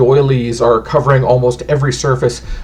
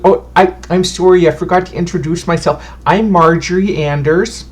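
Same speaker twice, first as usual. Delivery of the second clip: put-on higher, humble, chatty old lady; a sweet granny introducing herself; fussy old fortune teller; 4 semitones higher than usual. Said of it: "And she goes".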